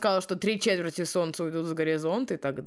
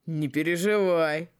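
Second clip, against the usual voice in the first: creepy calm. Acted. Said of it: "громко смеясь".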